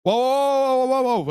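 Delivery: imitating an alarmed bystander stepping in; retold intervention. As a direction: call out to halt a fight, pitched high.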